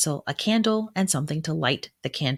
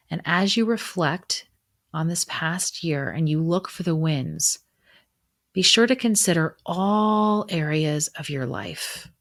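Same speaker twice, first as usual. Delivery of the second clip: even, measured reflection with long pauses; gently prompt, then leave space to reflect; guided meditation. Acted. Guide leading listeners through a winter solstice reflection, guided meditation.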